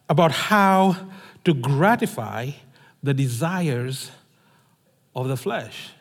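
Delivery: measured, solemn Bible reading that fades at the end; scripture reading. Acted. Reads the Bible passage aloud.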